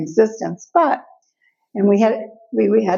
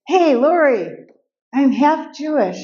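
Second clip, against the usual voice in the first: higher, slow, proud announcement to a friend; girl excitedly telling her friend, higher and drawn out; 6 semitones higher than usual. Retold or imitated. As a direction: beam it out, thrilled. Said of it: "I'm all excited".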